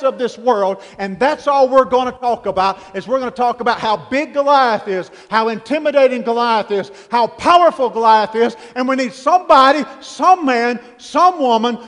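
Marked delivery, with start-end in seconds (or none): 2.9-8.5 stack the phrases, rising in force; building repetition. Real, not acted. Preaching list building.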